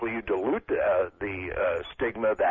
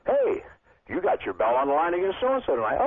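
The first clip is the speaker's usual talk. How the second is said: much higher, louder offhand announcement; casual janitor voice; 5 semitones higher, 3 dB louder than usual. Retold or imitated. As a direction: toss it off like a janitor passing by. Janitor casually announcing title match.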